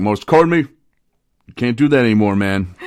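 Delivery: loud, high mock scolding, easing on the last word; exasperated protest. Roommates to the cereal eater, mock exasperated protest. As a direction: protest loudly, drawn out, as if fed up.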